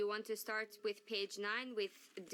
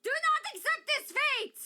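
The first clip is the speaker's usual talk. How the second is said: anguished declaiming; 13 semitones higher, 11 dB louder than usual. Acted. Demeter declaiming.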